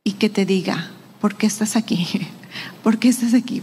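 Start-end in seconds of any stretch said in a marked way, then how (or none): 1.2-3.6 breathy whispered question, barely voiced; God's whisper. Preacher voicing God whispering to the weary listener, whispered. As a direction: whisper it as God's still small voice. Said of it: "escuchar el susurro de Dios".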